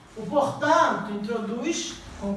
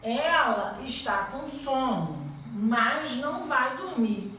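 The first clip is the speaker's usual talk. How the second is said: slow example; much slower than usual. Shown as a demonstration. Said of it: "eu vou dizer assim".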